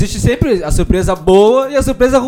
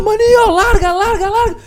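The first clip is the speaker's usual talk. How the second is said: much higher, urgent mimicked pleading; calling for the ball; 10 semitones higher, 3 dB quieter, slower than usual. Player calling his little teammate to release the ball, urgent. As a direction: call out high and repeat it urgently.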